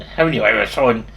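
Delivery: English accent, building to a mock outburst; retold English accent. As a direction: imitate an indignant Englishman's accent, climbing in pitch. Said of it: "in that English accent".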